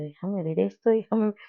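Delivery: a hint of a detective demanding a look; playing detective. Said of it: "como si fuera una detective".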